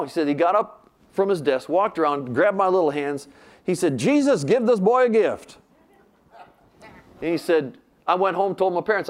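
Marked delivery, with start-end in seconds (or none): 4.0-5.6 loud, high, drawn-out plea to Jesus; commanding prayer. Acted. Preacher grabs the boy's little hands and prays, loud commanding prayer. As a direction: pray it out slowly with raised voice.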